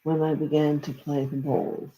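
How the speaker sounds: invoke gently, like a prayer; prayerful invocation. Acted. Invocation calling in angels.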